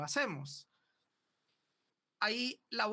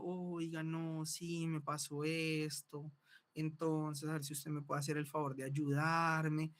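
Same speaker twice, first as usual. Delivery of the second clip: moving plea; 2 semitones lower than usual. Shown as a demonstration. Teacher demonstrating a voice meant to move someone. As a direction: ask for help to move the listener. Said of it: "si yo quiero conmover a alguien".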